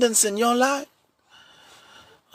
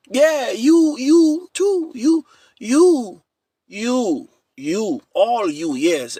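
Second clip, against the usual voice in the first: pointed callout; 3 semitones higher, much slower than usual. Real, not acted. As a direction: point them out, teasing. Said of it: "calling out congregation".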